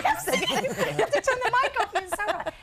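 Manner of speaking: high, laughing reply. Real, not acted. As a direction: laugh it out, caught out. Guest caught out, laughing.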